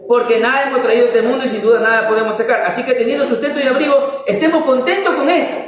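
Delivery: citando la Escritura, rápido y solemne; lectura bíblica. Acted. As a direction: lee el versículo rápido, como proclamándolo. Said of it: "por eso el Señor dice". (lectura rápida de la Biblia)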